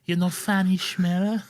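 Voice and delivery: put-on grandma in law greeting Lorenzo, Italian accent; Italian nonna. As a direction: play a doting Italian granny calling his name. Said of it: "an impression of Lawrence's nonna-in-law".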